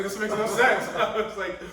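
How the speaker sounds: half-laughing, can't believe what he's hearing; incredulous. Retold or imitated. Retelling a confusing phone call, high laughing disbelief.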